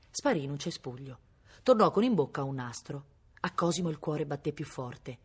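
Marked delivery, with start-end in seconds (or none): none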